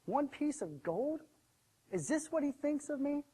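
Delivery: indignant. Acted. Servant fumes to himself over one piece of gold, indignant. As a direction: act out a slighted servant's grievance. Slighted servant fuming in thought.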